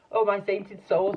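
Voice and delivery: high, loud, slow astonished gasp. A narrator's reading. Giraffe gasps at the Duke's gift, astonished gasp. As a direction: gasp it out in disbelief. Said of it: "gasped the giraffe".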